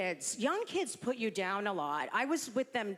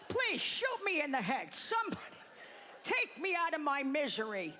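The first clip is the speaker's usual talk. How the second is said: pleading grandfather; 4 semitones higher than usual. Retold or imitated. Grandfather who can't get a word in, mock pleading. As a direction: mock-desperate old man begging. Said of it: "he literally walked around like".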